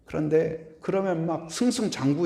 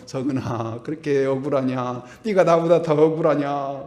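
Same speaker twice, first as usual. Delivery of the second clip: Joseph rebuking; 5 dB louder than usual. Acted. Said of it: "요셉이 딱 나와가지고".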